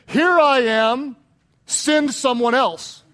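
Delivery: loud, slow pleading excuse; mock Moses. Preacher voicing Moses asking God to send someone else, slow plea. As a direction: beg off like reluctant Moses.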